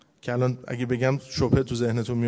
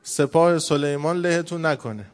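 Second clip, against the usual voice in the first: drawn-out, mildly raised warning call; a slow, half-hearted cry of warning; mock shout; 2 semitones higher, slower than usual. Ant warning the others of Solomon's army, mock shout.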